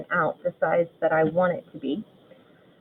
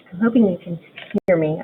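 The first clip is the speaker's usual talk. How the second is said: talking through a face mask; muffled, masked voice; 3 dB louder than usual. Real, not acted. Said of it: "talking through my mask today".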